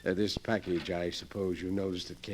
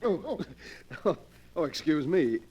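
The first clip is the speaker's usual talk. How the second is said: startled; 5 semitones higher than usual. Acted. Bumps into huge stranger in fog.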